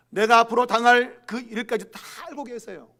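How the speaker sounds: ordinary talk, nothing marked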